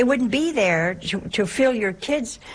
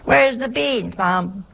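hollering at the table. Retold or imitated. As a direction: yell for the beans. Acted shouting at dinner table.

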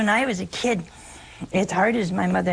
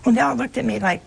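ordinary talk

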